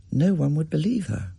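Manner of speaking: ordinary delivery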